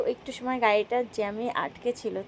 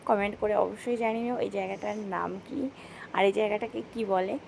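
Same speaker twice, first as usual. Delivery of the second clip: whispering; 2 semitones lower, 5 dB quieter than usual. Real, not acted. Whispered aside to viewers.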